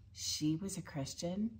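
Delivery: hushed, questioning aside with a rising end; quietly incredulous, as if asking a neighbor; mock disbelief. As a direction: softly imitate puzzled mourners. Imagined funeral guests whispering in disbelief.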